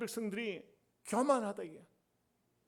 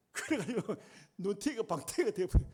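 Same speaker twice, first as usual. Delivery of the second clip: laughing. Real, not acted. Laughing at frying pan story.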